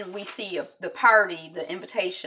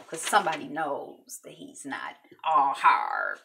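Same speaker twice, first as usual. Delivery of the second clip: slow, hushed whisper; whisper aside; 4 semitones lower, slower than usual. Real, not acted. Teasing the viewers about Diamond, in a slow whisper. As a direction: let us in on a secret.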